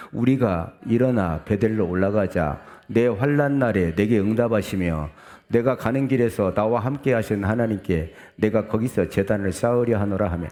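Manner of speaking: steady, projected reading aloud; scripture reading. Acted. Preacher leads congregation through the verse, reading aloud. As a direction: read the verse out evenly to the congregation.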